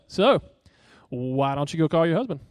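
a touch of smug sarcasm; lightly voiced smug mock question; arrogant Jesus. Preacher voices his wrong reading of Jesus, mildly smug. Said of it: "with this arrogant undertone".

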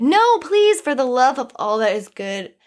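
earnest plea with a touch of preacher; preachy self-help guru. Real, not acted. Urging listeners not to apologize for excitement, lightly preachy. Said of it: "I'm really sounding like either a preacher or a self-help guru".

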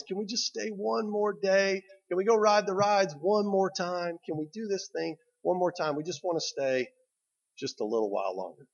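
put-on high pleading child's voice; begging kids.

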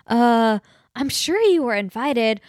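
hesitant, slowed uncle imitation; nervous uncle. Uncle answering his angry brother on the phone, mildly nervous. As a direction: imitate him stammering and unsure. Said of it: "so nervous".

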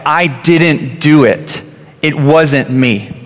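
slow, mildly tearful denial. Retold or imitated. Dad imitating his crying son's teary denial. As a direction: drag the words out like a teary kid insisting. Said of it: "tears started coming down".

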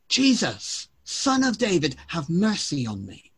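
high calling out on Jesus, then easing down; mock shouting. Blind man calling to Jesus over the crowd, a mild mock shout. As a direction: cry out to be heard over a crowd. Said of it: "So he began shouting".

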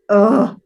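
loud mock groan from a mortified son; mock embarrassed groan. Mother imitates her embarrassed rugby-player son, mock groan. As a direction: imitate a son's exasperated "oh". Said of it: "He just kinda goes".

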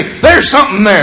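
dog's bark voice. Retold or imitated. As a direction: voice the little dog announcing danger. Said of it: "And he'll say".

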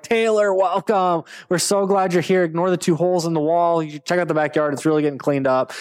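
high, excited greeting to a celebrity guest; mock eager host; eager host welcome. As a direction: gush over the famous guest at the door. Acting himself greeting Taylor.

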